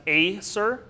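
Acer said AY-ser, weight on the first syllable; stress on first syllable. Shown as a demonstration. Teacher sounding out Acer for plant students, first syllable stressed. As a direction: lean on the first beat of Acer. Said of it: "So here it would be pronounced".

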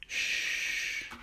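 soft bedtime whisper, almost no voice. Acted. Reader whispering goodnight to Crane Truck at bedtime, whispered. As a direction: hush it like a child is asleep.

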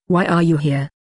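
pressing, firm repeat of the question; a hint of impatience, insisting; insistent. A narrator's reading. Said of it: "Indune reiterated insistently".

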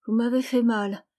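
put-on a hurt child scolding the grown-up; small girl's reproachful complaint; reproachful little girl. A narrator's reading. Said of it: "dit une voix enfantine, d'un ton de reproche".

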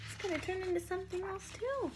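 hushed storyteller aside; whisper. Real, not acted. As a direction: lean in and whisper. Whispered aside to child listener.

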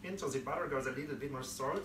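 playful character voice, a little different from her own; put-on silly voice. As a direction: ham it up lightly like a cartoon cook. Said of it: "I don't know why I'm doing voices today".

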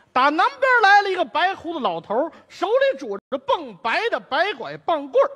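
crisp tongue twister delivery; tongue twister recital. Shown as a demonstration. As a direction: recite it like a performance. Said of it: "您听我这个啊".

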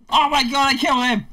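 high, loud gasp of horror; shocked cry. Real, not acted. Player shocked after killing the snowman, high and loud. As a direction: react like you just did something awful.

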